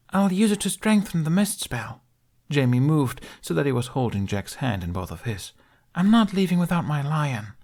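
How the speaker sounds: put-on high, resolute young boy; determined child voice. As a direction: say it like a brave kid.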